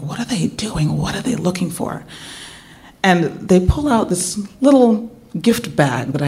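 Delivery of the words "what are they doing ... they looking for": nervous hushed thought. Retold or imitated. Nervous inner worry.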